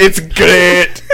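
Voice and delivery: put-on jokey Scottish accent on "It's great". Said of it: "a word for that in Scotland".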